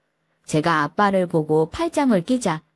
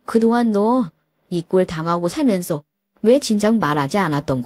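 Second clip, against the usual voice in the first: protective father. Acted. Rich father rescues daughter.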